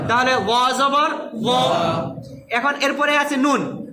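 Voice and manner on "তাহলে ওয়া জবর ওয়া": slow careful Quran letter reading; demo reading. Shown as a demonstration. Teacher reads the letters slowly for students. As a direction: sound out each syllable slowly. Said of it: "হারাকাতের উচ্চারণ তাড়াতাড়ি হয়".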